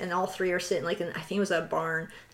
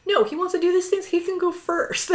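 high-pitched, louder indignant retort; mock defiant sister; 10 semitones higher, 4 dB louder than usual. Imitating sister sending brother in first, high defiant protest.

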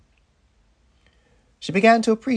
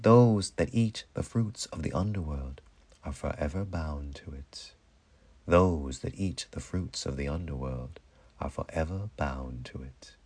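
low, very soft warning; ominous hush; 7 semitones lower, 6 dB quieter than usual. A narrator's reading. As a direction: sink almost to a whisper, like a binding law. Ominous law of underworld, repeated.

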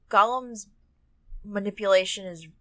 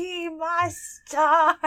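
high, slow whining creature; Smeagol voice; 11 semitones higher, 7 dB louder, much slower than usual. Retold or imitated. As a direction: stretch it like a wailing Smeagol. Quoting Smeagol in character.

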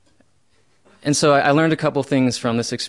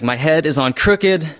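escalating anger; 4 semitones higher, 5 dB louder than usual. Retold or imitated. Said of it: "it got so bad".

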